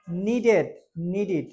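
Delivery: নিডেড with a clear "id" ending. Shown as a demonstration. Teacher shows students the "id" ending, নিডেড. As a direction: say নিডেড as two syllables, "nee-did". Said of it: "আমরা বলি এড".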